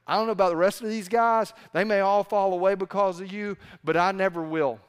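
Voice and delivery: indignant Peter protesting. Retold or imitated. Peter insists to Jesus he will never fall away, fast and loud. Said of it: "Peter's having none of this".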